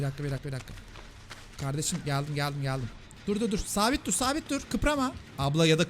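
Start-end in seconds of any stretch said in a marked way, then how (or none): 3.3-5.1 urgent instruction. Real, not acted. Urging a player to hold still.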